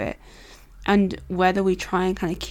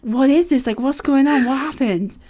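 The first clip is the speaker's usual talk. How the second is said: confused; 6 semitones higher, 4 dB louder than usual. Retold or imitated. Retold confused inner thoughts.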